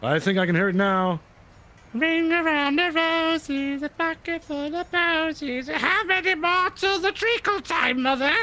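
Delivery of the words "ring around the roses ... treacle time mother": high, drawn-out creature singsong; gibbering mouther. Acted. Host mimics the monster's crazed nonsense, high gibbering singsong. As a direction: chant nursery nonsense in a very high voice. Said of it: "gibbering nonsense that you just mimicked".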